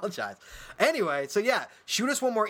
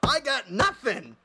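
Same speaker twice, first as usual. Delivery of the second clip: exasperated; 5 semitones higher, slower than usual. Real, not acted. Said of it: "frustrated about joke flopping".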